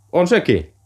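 thrilled as her numbers come up; mother getting excited over the lottery draw, high and eager. A narrator's reading. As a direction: voice jumps high with rising hope. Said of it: "hänen poskensa alkoivat hehkua".

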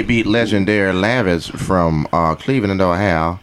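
mock deacon. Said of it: "He about to preach".

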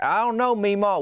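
high, pleading mock whine; whiny plea. Brother pleading with angry Meemaw, mock whine. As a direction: squeak it out like a cornered kid.

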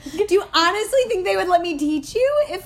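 put-on high, old-time widow voice; lightly voiced 1940s widow. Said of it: "We love a nineteen forties widow voice".

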